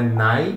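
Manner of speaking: nai said like English "nigh"; I as a diphthong. Shown as a demonstration. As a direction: say nai with a gliding "ai" vowel after the N. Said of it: "tem som de I".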